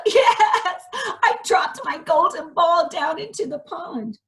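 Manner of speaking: high, bright princess. Acted. Princess telling the frog her ball fell, high. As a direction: answer the frog like a sweet princess.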